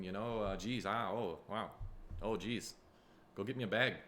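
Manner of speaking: put-on playful Minnesota accent; lightly mocked Minnesota lilt; Minnesotan. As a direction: play a homely Minnesotan. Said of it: "I just wanted to be Minnesota".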